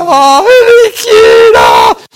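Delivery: put-on very high, loud, slow baby coo.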